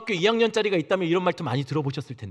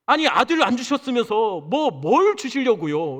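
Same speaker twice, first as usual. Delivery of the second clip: annoyed retort; 4 semitones higher, 3 dB louder, slower than usual. Retold or imitated. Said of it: "아브라함이 그렇게 화가 났다는 거예요".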